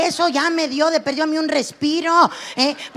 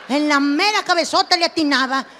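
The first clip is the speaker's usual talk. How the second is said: ordinary talk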